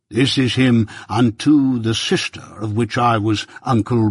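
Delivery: lightly voiced pompous old busybody; a hint of a self-important uncle holding forth; Pumblechook, pompous. Pumblechook lecturing young Pip at breakfast, lightly pompous voice.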